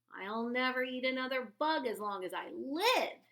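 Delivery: loud, happy cheer. A narrator's reading. Stellaluna cheers while stuffing herself with fruit, happy. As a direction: cheer it with a full belly. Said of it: "cheered Stellaluna".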